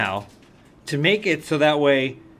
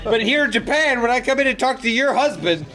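higher, hammed-up hero voice; mock Ryo voice; 7 semitones higher than usual. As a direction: play the hero, overly earnest. Voicing Ryo talking to shopkeeper.

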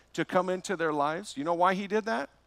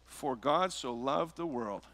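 slow solemn quote; slower than usual. Shown as a demonstration. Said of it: "That's the way it starts".

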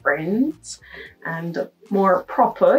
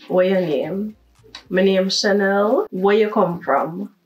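Jamaican Patois. Shown as a demonstration. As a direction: speak in natural Jamaican Patois. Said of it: "let's switch to patois".

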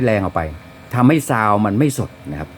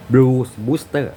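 Blues Booster stretched out very slowly, word by word; slow spelled-out name; much slower than usual. Shown as a demonstration. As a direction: draw out Blues Booster so they catch the name. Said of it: "ที่เรียกว่า". (พูดคำว่า Blues Booster ช้าๆ ชัดๆ)

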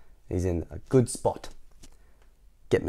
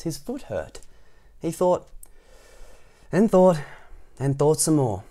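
higher-pitched, lilting read-aloud; story narration; 5 semitones higher, 4 dB louder than usual. A narrator's reading. Narrator tells children of Happy's idea, lilting storytelling. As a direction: let the thinking build in steps. Reads the picture book aloud.

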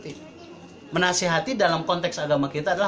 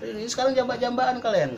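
mother's admonition; 4 dB quieter, slower than usual. Retold or imitated. Mother telling fighting siblings they will miss each other, admonishing. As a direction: imitate a mother slowly warning her squabbling children. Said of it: "Ibu saya itu bilang".

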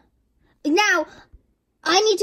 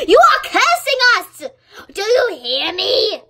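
high, loud accusation; indignant cry that they are cursing us; indignant outburst; 5 semitones higher, 5 dB louder than usual. Acted. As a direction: blame them all at once. London kid accusing classmates.

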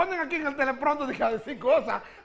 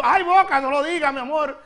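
louder, playful scolding cry; mock self-scolding; 4 dB louder than usual. Real, not acted. Host scolding herself playfully on air. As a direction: tell your own mouth off in jest. Scolding her own mouth.

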